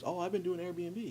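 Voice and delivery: high, soft, offhand mention; casual retold reply. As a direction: imitate a light, casual update. Retells casually telling friends his news.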